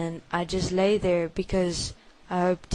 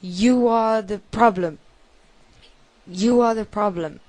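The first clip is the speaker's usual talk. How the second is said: father's angry shout; 3 semitones higher, 6 dB louder than usual. Retold or imitated. Father beating his child, shouting that he is the problem. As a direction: hurl the blame at the child. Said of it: "And he said".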